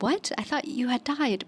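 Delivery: mildly acted disbelief, pitch lifting; puzzled surprise, retold from a dream; a touch of baffled shock; retold consternation.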